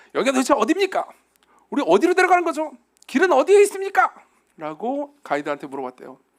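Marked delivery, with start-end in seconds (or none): 0.1-4.1 irritated, fed-up, raised complaining voice. Storytelling, acting a tired friend questioning a guide, mock-irritated. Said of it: "짜증 섞인 목소리로 물었습니다... 연기력을 잘 발휘해 보겠습니다".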